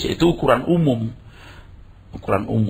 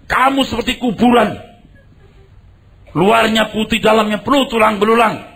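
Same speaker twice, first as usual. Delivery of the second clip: higher, louder accusing proclamation; forceful denunciation; 8 semitones higher, 3 dB louder than usual. Retold or imitated. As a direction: declaim it like a stern prophet. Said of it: "Atau gini".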